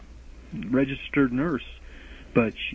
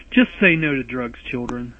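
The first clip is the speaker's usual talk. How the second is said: mock PSA; 2 semitones lower, 6 dB louder than usual. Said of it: "No, I'm just kidding".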